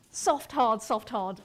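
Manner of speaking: "hard" stressed after each lighter "soft"; soft-hard rhythm. Shown as a demonstration. Lecturer explaining the iambic pattern, stressing each "hard" after "soft". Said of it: "unstressed and stressed".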